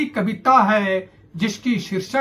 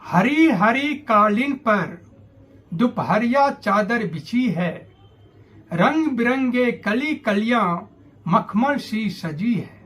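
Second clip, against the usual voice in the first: measured descriptive verse reading; poem recitation. Acted. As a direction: recite it line by line, pausing after each image.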